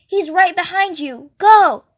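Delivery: yelling. A narrator's reading. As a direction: scream the warning to run. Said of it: "Freak is yelling".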